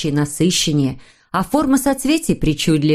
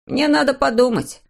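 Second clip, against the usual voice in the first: Snufkin voice; 7 semitones higher than usual. A narrator's reading.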